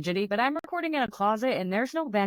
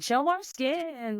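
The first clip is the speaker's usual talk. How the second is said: slow, higher mock-mom urging; 6 semitones higher, much slower than usual. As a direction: drawl it like a pushy mom. Mimicking mom urging her daughter.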